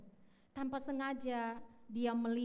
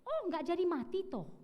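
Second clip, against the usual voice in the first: teasing surprise; 8 semitones higher, 3 dB louder than usual. Retold or imitated. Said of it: "kata pendeta".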